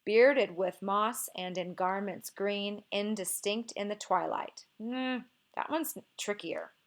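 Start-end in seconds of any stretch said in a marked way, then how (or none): 0.1-4.6 slow verse reading, beats on BEARded, MOSS, GARments; testing the meter. Shown as a demonstration. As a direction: sound out the line's rhythm slowly from "Bearded" to "twilight". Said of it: "see if maybe it does the same thing".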